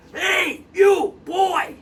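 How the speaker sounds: lightly voiced old man shouting down; little old man calling. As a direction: call down from the tower for help. Old man calls from tower.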